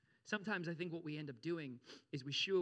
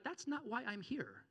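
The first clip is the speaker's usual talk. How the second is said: slow, high-pitched mock objection; drawn-out, hammed-up complaint; imagined protest; 8 semitones higher, slower than usual. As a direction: protest as the man who got the wrong thing. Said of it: "If that was me".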